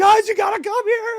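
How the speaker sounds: put-on shrill, very high, loud sixteen-year-old voice. Retelling calling a towing company at night, in his high sixteen-year-old voice. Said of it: "I have my high sixteen year old voice".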